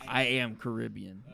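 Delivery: Caribbean as kuh-RIB-ee-un; preferred pronunciation. Shown as a demonstration. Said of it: "I like to say it that way".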